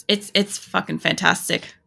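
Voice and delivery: dry, understated sarcasm; sarcastic. Real, not acted. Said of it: "obviously I'm being sarcastic".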